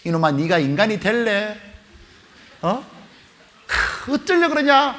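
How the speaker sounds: drawn-out exasperated telling-off, rising high at the end; mock scolding mother. Mother to son who skipped academy, acted exasperated scolding. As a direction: scold like a fed-up mum. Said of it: "하고 막 소리치니까".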